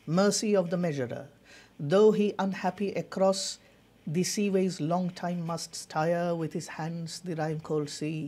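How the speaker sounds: put-on very slow, measured reading of Old English verse; poem recitation. Shown as a demonstration. Teacher reciting the poem's opening lines for students, very slow and solemn. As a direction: recite each phrase slowly, with long pauses between lines. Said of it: "কবিতাটির প্রথম কয়েকটি লাইনের English recitation শুনব".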